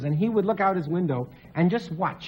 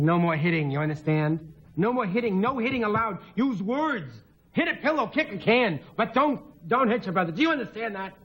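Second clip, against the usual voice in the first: gentle but firm; 3 semitones higher than usual. Retold or imitated. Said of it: "gently, as firm as I could".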